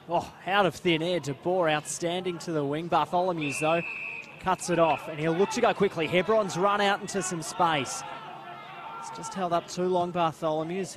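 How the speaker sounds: animated running football commentary; live play-by-play. Real, not acted. Commentator calling a player into space, animated play-by-play. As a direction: follow the break with lively drive.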